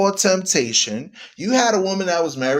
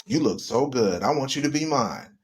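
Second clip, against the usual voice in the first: smooth seducer; 4 semitones lower than usual. Retold or imitated. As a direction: croon it like a lady-killer. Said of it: "comes down and says".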